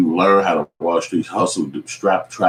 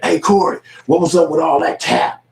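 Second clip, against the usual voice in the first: mock taunting host; 11 semitones higher, 4 dB louder than usual. Host confronts Corey, voiced.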